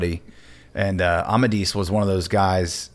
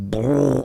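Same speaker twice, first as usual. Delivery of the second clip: long rumbling raspberry-like fart imitation; guttural fart noise; 4 semitones higher than usual. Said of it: "these farts were, like, guttural".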